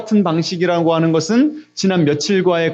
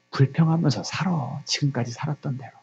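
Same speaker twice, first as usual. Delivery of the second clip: devil's coaxing voice; 2 semitones lower, 8 dB quieter than usual. Acted. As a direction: quietly urge them to give up. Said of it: "사단 마귀의 음성이에요". (힘을 빼고 나직하게 꾀는 말투)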